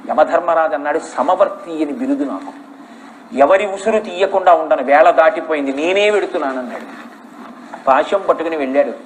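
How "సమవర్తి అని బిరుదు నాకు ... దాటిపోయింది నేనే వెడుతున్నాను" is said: stern Yama. Acted. Yama declares he will go.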